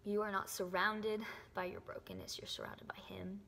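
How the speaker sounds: emotional whisper. Real, not acted. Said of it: "I'm so sorry that I got so emotional".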